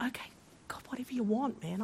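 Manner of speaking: hushed, giving in; resigned surrender. Retold or imitated. Speaker quietly gives in to God, resigned. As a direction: murmur a reluctant yes under your breath.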